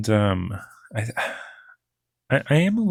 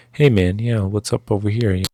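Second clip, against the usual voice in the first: louder, casual podcast-style greeting; 4 dB louder than usual. Shown as a demonstration. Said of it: "I don't want my actor sounding like".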